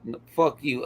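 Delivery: tipsy and loose, mid-game. Real, not acted. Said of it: "I'm getting drunk".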